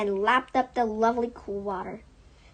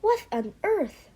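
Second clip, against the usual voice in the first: higher, startled question; higher startled cry; astonished cry; 9 semitones higher than usual. Acted. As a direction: gasp it out in disbelief. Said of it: "she cried".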